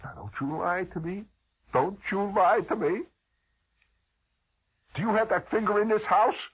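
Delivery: mother demanding the truth; stern mother. Retold or imitated. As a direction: warn him not to lie.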